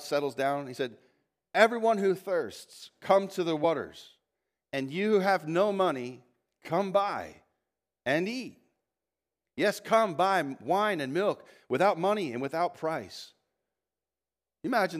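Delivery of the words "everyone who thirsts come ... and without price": prophet's proclamation. Acted.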